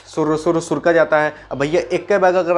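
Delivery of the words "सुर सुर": quick light slurps through the lips; slurping tea sounds. Shown as a demonstration. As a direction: imitate sipping hot tea, sur sur. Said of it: "यानी कि".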